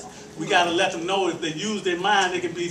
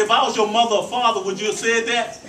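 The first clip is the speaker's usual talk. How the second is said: retold challenge; 4 semitones higher than usual. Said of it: "I said".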